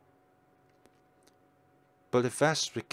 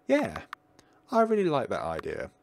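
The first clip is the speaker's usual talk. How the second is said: put-on happy boy voice; 4 semitones higher than usual. Boy accepts happily.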